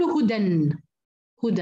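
هدى said slowly with a long final alif at the pause; pronouncing هدى. Shown as a demonstration. Teacher shows students how to stop on هدى, slow demo. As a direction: stretch the alif at the end of هدى. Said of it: "فأقول".

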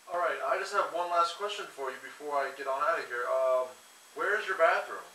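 a departing guest, voiced apart from the speaker's own; lightly voiced guest asking for the bathroom; mock visitor voice. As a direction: play a polite visitor with one last question.

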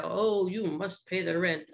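lightly voiced mean landlord; a hint of a sneering villain; melodrama villain. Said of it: "the mean, um, guy".

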